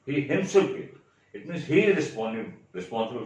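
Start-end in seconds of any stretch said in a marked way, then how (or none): 0.0-1.0 "himself" lifted high and louder; stress on himself. Shown as a demonstration. Teacher repeating the example for students, stress on himself. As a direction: make "himself" stand out emphatically. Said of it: "you are stressing the word himself".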